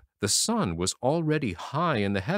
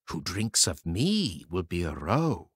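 brook speaking; 3 semitones lower than usual. A narrator's reading. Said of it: "Sister heard it say".

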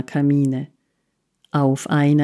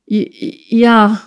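stammered, sobbing yes, higher; a frightened child sobbing out the word; 4 semitones higher, 4 dB louder than usual. A narrator's reading. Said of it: "schluchzte das Kind". (schluchzend, stotterndes Ja)

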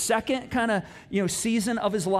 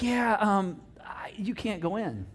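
halting, apologetic mock brush-off; mock reluctant refusal; slower than usual. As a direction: let him down awkwardly as a sheepish God. God awkwardly refuses Moses.

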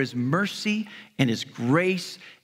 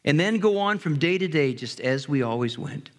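poem recital; 3 semitones lower than usual. Acted. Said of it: "Listen to this poem".

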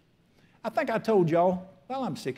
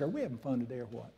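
breezy cheer to lift her mood; lightly upbeat and hushed; cheering up the girl at the counter; cheery, soft, quick; 5 semitones lower, 10 dB quieter, faster than usual. Retold or imitated. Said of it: "And I said".

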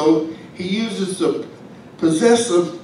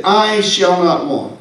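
"I shall not want" at a somewhat slow pace; slower quote; slower than usual. Shown as a demonstration. Preacher restating the psalm, a little slow. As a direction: read the verse unhurried. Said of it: "He said".

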